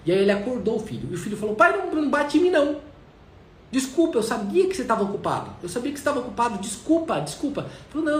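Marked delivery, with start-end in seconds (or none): 1.6-7.6 put-on frightened child.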